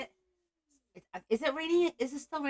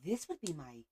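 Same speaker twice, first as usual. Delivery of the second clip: put-on quiet voice; 2 semitones lower, 13 dB quieter than usual. Shown as a demonstration. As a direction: drop the volume right down to show a different voice. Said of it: "if I was talking like this".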